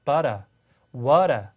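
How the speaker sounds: Australian "butter, water", flapped T, no R; Australian accent. Shown as a demonstration. Teacher mixing American T and British R, Australian accent. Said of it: "R 사운드는 영국 사람들처럼 해서".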